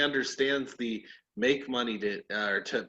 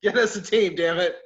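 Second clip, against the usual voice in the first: heated, emphatic pleading rant; exasperated demand, playfully overdone; mock arguing; 2 semitones higher than usual. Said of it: "I started arguing with him".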